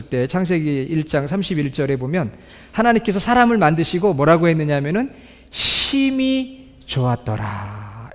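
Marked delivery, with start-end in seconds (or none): 5.5-8.1 drawn-out, low and slow, leaning on 심히; a hushed, reverent 심히 좋았더라; slow solemn reading. Shown as a demonstration. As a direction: savor each word of 심히 좋았더라 slowly. Solemn scripture quote, slowed.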